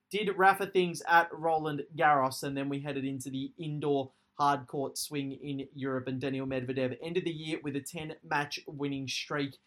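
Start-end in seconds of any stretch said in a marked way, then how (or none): 2.4-9.6 breathless after a long fast recap; running out of air at the end; out of breath. Real, not acted. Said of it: "I'm out of breath".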